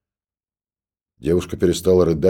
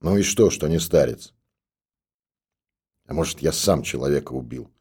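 anguished; 2 semitones lower than usual. A narrator's reading. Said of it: "с тоской в голосе".

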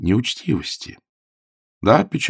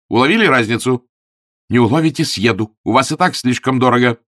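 louder, sharp lecturing; scolding; 3 semitones higher, 5 dB louder than usual. Acted. Augustine scolds the landlady over burnt eggs, loud. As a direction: lay into her.

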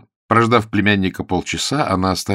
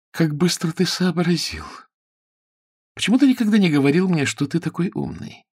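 gushing praise; 8 semitones higher than usual. Acted. Sue praises Ronnie excitedly.

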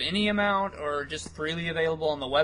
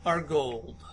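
high, loud slogan voice; mock motto; 3 semitones higher, 6 dB louder, much slower than usual. Cohost delivering a motto, mock-grand. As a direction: proclaim it like a catchy motto. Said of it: "There's a motto for you".

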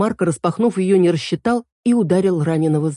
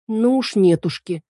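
put-on high, indignant young girl correcting him; girl Эль voice; 7 semitones higher than usual. A narrator's reading. Эль jumps in to correct Марко, high and indignant. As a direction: pitch it up as the fussy girl fairy. Эль refuses the name Чип.

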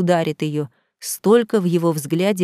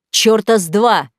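barked; 4 dB louder than usual. Acted. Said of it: "рявкнул Саид".

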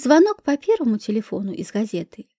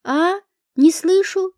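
put-on lightly creaky, higher-pitched old man; 5 semitones higher, slower than usual. A narrator's reading. Old man playing deaf answers a whisper, lightly creaky. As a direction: creak it out like someone hard of hearing. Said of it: "проскрипел Феофанов".

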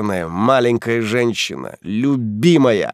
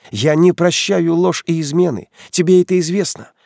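higher, louder cold fury; scornful anger; 8 semitones higher, 4 dB louder than usual. Acted. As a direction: spit it out with contempt. Heroine's cold angry rant.

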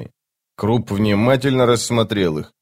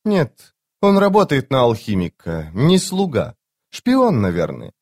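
high female scout weighing it up; reply to a superior in a high girlish pitch; put-on high female voice, dipping on afterthoughts; young woman's voice; 5 semitones higher than usual.

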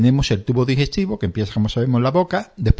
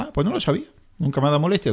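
patient voice, higher, a touch surprised; mock surprised patient; 4 semitones higher, much faster than usual. Patient answering the doctor, mildly astonished. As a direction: play the patient caught off guard.

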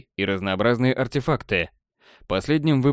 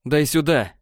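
higher-pitched, narrated fury; furious hiss; 4 semitones higher than usual. A narrator's reading. Elf at gunpoint demands the backpack, furious. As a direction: demand it with contained rage. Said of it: "Прошипел он с такой яростью".

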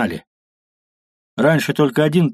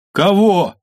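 high loud shout; shouting back; 8 semitones higher, 4 dB louder than usual. Acted. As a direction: yell back over the din. Shouted exchange over the noise.

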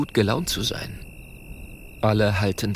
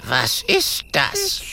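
grim ghost; 5 semitones higher, much slower than usual. Acted. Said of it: "Grimmig blickt Clementia".

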